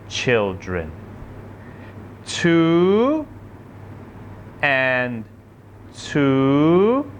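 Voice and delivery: patient sing-song counting; gentle teacher talking to small children; kindergarten teacher voice. Acted.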